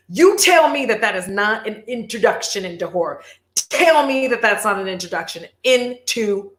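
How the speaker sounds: conspiratorial hushed challenge; dramatic whisper. Real, not acted. Vlogger daring viewers in a hushed voice. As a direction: whisper it like a spooky dare. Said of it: "dramatic whisper to viewers".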